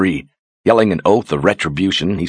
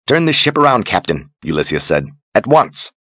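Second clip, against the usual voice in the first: sharp command; 4 semitones higher than usual. Acted. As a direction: bark the order at the captain. Sorceress orders the captain.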